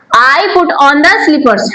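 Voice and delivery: very slow, word by word; slow teaching read. Shown as a demonstration. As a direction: dictate it slowly to learners. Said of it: "ध्यान रखिए, स्लीपर नहीं बोलना है".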